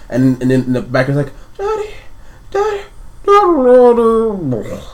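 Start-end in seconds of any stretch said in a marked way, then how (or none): 1.6-4.9 put-on high, eerie little child calling; young boy. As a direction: call out as a child, last word drawn out. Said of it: "like, a young boy".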